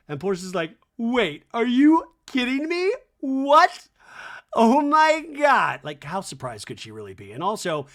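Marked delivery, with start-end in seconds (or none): 1.0-5.8 high, loud, slowed hammed-up disbelief; mock shock. Daughter gets a new car, hammed-up high stunned shriek. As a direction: gasp it out like a stunned reality star. Porsche reacts to gifted car.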